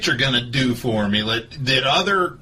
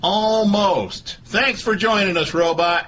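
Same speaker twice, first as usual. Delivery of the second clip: Doctor Phil voice; 5 semitones higher than usual. Acted. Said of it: "This is Doctor Phil".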